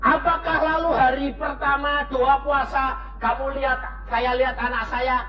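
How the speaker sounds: high, driving sermon build; preaching. Acted. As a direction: preach it to the congregation. Preaching at full force.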